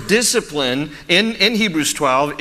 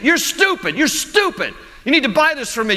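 imitating a yelling child; 8 semitones higher than usual. Kid in the store insulting his mother, high mock child taunt. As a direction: play a bratty little boy sneering at mom. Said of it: "And he just kept saying it".

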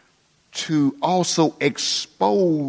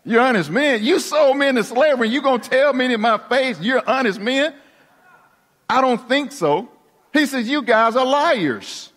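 higher and heated, throwing their lie back at them; indignant accusation; 6 semitones higher than usual. Acted. Joseph confronts the brothers who sold him, heated and accusing. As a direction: Joseph calls his brothers liars to their faces.

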